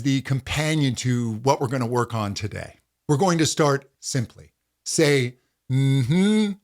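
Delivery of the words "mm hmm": agreeing hum. Shown as a demonstration. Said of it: "like you're really agreeing with something".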